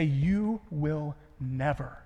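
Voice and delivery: very slow and soft, fading to a whisper on "darkness"; Jesus's promise, spoken in a hush. Acted. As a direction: let each word hang, then breathe out "darkness". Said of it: "Jesus goes out of his way to say".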